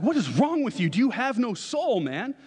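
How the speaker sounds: mock outrage. Brother to unmoved sibling after the movie, mock outraged. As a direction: imitate an appalled fan telling someone off. Acts out brother angrily scolding him.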